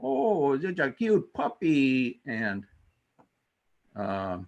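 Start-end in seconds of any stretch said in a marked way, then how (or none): 0.0-2.2 put-on high, slow cooing baby talk to a puppy; gushing over a puppy, sweet and drawn out. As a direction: coo at a cute puppy, pitch way up. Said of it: "where's this fine line between".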